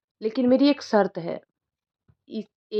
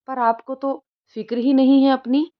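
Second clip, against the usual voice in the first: worried scolding; 5 semitones higher, 5 dB louder than usual. A narrator's reading. Grandson scolds ailing grandmother.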